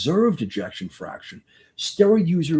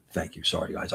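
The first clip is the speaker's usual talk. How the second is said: emotional; 8 semitones lower, 9 dB quieter than usual. Real, not acted. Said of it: "I get, I get emotional".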